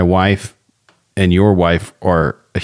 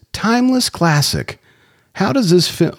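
put-on Jamaican accent; 10 semitones higher than usual. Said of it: "Why is he doing a Jamaican accent?".

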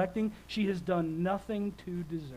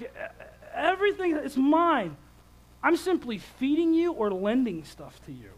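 higher and louder, voice straining; ranting dad; 5 semitones higher, 3 dB louder than usual. Retold or imitated. Dad still yelling at his daughter, strained. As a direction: push it out in a strained rant.

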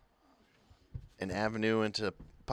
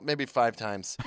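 raised, louder retelling of a friend; excitedly mimicking a friend's warning; quoting a friend; 7 semitones higher, 7 dB louder than usual. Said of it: "you're like".

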